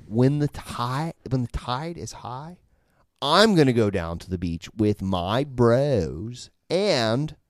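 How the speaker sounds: slow, lightly voiced California stoner; a hint of a California stoner accent, slow. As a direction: drift through it like a laid-back California surfer. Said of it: "tell us about California".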